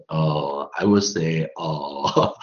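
slow, drawn-out fillers around I will say; hesitant filler speech. Retold or imitated. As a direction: imitate a speaker stalling for words. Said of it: "我常常看到有些人说". (拖长语气词，模仿犹豫地说话)

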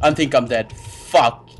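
deflated. Real, not acted. Just died in game.

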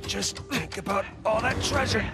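carrying heavy load. Real, not acted. Lifting heavy slab together.

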